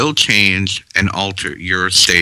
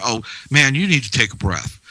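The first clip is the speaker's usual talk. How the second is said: sarcastic; 4 semitones higher, faster than usual. Retold or imitated. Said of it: "they say it sarcastically".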